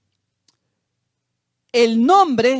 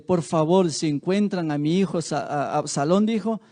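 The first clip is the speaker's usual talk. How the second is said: pleading; 4 semitones lower, 4 dB quieter than usual. Retold or imitated. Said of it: "le suplicó a él".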